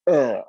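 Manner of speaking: short, loud groan; retold ugh. Reacting to sights at the children's hospital, retold ugh. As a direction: let out a heavy ugh. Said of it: "I'm just like".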